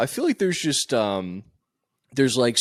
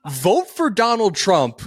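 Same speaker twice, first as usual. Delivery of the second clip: mock rant; 3 semitones higher than usual. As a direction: pretend to be scandalized. Friend mock-rants about father folding.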